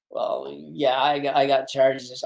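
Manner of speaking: low, halting mock admission; clammed up. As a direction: act out a reluctant, quiet confession to a cop. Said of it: "And I kinda clammed".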